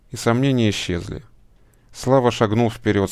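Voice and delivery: ordinary delivery, nothing marked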